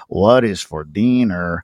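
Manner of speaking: slow the cadence way down; slowed-down punchline. Retold or imitated. Comic showing the slowed punchline that finally killed, slow and low. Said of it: "Like, I slowed it".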